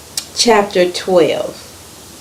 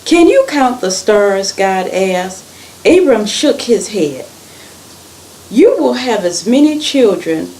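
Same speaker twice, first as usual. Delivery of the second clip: animated storytelling, stressed words lifted; story read-aloud; 2 semitones higher than usual. A narrator's reading. Reader tells children of Abram and God's promise, animated storytelling.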